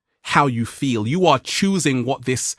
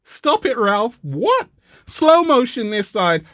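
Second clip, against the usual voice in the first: playful aside; 8 semitones higher, slower than usual. Real, not acted. Aside to cameraman Ralph.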